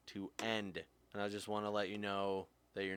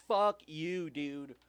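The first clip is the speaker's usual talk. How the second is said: loud, higher, slow fuck you; angry swear; 6 semitones higher, 5 dB louder, much slower than usual. Real, not acted. Cursing the president to viewers, angry and loud. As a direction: spit it out, fed up.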